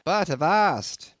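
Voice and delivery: high, slow gruff innkeeper calling out; landlord's exclamation. A narrator's reading. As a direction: stop him with a drawn-out avast. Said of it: "he added, tapping his forehead".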